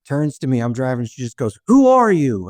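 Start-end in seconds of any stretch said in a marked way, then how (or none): 1.7-2.5 put-on high, loud confused old woman; a drunk grandma suddenly not knowing him. Grandson driving, drunk grandma turns and asks, high and loud.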